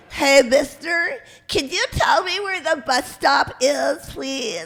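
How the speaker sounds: put-on high, loud, congested, stuffed-up little girl voice. Performer demonstrating a favorite radio-show character, a stuffed-up little girl voice. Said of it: "she was all stuffed up from a bad cold, and she she talked like this".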